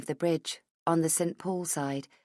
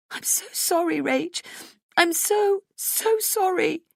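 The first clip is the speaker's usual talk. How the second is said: high, tearful apology; crying; 13 semitones higher than usual. A narrator's reading. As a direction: sob the apology.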